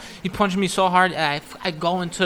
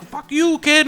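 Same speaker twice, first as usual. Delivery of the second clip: high, loud mock-angry yell; acted angry brush-off; 9 semitones higher, 8 dB louder, slower than usual. Madden ejecting the kid from his seat, mock-angry yell. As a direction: snap it loudly at your passenger.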